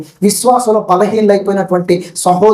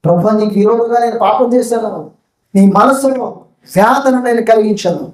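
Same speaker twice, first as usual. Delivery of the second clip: a mild acted sorrow, pitch lifted in plea; grieving confession; 3 semitones higher than usual. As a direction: confess to God with a touch of grief. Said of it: "అని దావీదు దుఃఖపడుతూ". (తేలికపాటి దుఃఖంతో ఒప్పుకోలు)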